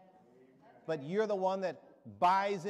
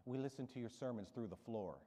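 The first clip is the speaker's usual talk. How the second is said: put-on sweet old lady; 5 semitones lower, 10 dB quieter than usual. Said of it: "she says with her husband".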